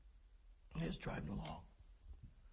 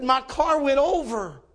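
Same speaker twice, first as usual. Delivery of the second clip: high, slow, emphatic report of disaster; urgent alarm; 6 semitones higher, 4 dB louder, slower than usual. Retold or imitated. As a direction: drive each word home in alarm. Stranger breaking the disaster news.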